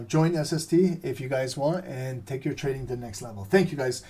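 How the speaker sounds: strained, losing his voice; a tired, worn-out voice; hoarse voice. Real, not acted. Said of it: "I'm losing my voice".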